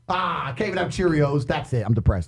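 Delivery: mock mopey sigh. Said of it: "mocking a sad man at fridge".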